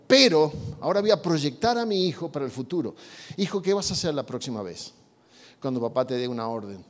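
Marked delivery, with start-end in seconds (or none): 3.4-6.8 más bajo y suave; padre sereno. Acted. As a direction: calmly coach a son, acting the father. Padre pregunta con calma al hijo. (padre sereno y suave)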